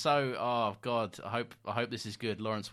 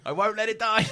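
defiant cry; 11 semitones higher, 9 dB louder than usual. Real, not acted.

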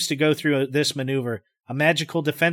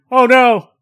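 horrified cry; 10 semitones higher, 12 dB louder than usual. Acted. Horrified exclamation.

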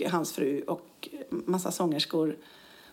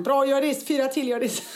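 higher, louder gym cheer; coach encouraging; 6 semitones higher, 4 dB louder than usual. Retold or imitated. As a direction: cheer her through the last reps. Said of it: "Så ropar man".

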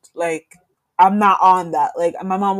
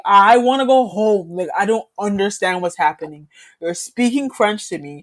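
retold sobbing plea; 3 dB louder than usual. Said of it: "I start sobbing 'cause I'm like".

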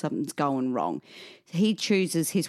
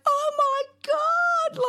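high, drawn-out cry of pain. Retold or imitated. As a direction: groan it out as the door hits. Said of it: "like that".

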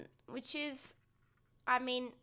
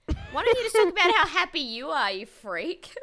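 exasperated; 8 semitones higher, 11 dB louder than usual. Real, not acted. Exasperated jab at contestant.

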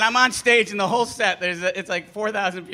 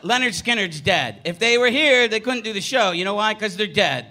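berserk rage. Retold or imitated. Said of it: "finally I just snap".

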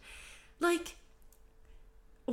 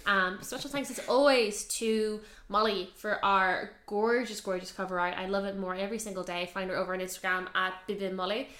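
robot voice; 2 semitones lower than usual. Real, not acted. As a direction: drone the thanks like a robot. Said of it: "talking like a robot now".

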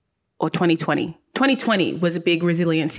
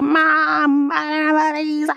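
panicked call to mum; 8 semitones higher than usual. Retold or imitated. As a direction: retell the panicked call, pitched up.

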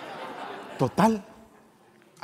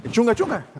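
drum beat sounds; 9 semitones higher than usual. Retold or imitated. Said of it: "pues si tú decís que".

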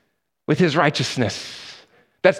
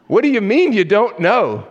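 a touch of disbelief, pitch raised; mildly exasperated angel; 5 semitones higher, 3 dB louder than usual. Acted. Angel interviewing the thief at heaven's entrance, mildly exasperated. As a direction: press the baffling newcomer, voice lifting.

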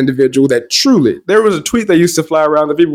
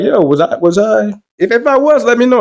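higher-pitched retold question; checking with witnesses; 6 semitones higher than usual. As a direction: lift the pitch, asking openly.

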